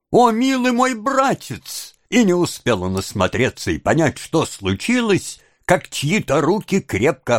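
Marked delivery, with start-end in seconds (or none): 0.1-1.9 high, drawn-out woman's wail; loud wail. A narrator's reading. Young woman pouncing on her supposed brother, loud wail. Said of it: "громким воплем какой-то молодой женщины".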